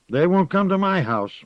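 lightly voiced old gossip; a hint of a sly old woman; old village witch. Witch Moss speaks.

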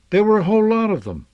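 put-on high, fast, eager kid voice; excited child. A narrator's reading. Son telling his father about the horses, eager and fast. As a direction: bubble over about the horses.

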